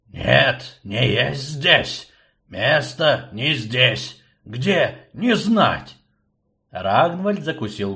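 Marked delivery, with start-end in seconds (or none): 0.1-6.0 slow, broken creature speech; halting undead servant; halting skeleton voice. Acted.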